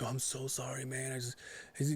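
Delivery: soft, apologetic buddy voice. Retold or imitated. Buddy feeling bad about the towed truck, apologetic. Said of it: "my buddy's feeling bad about it".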